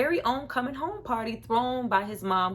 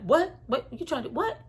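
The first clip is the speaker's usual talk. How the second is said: disbelieving what; 5 semitones higher than usual. Retold or imitated. Josh in denial.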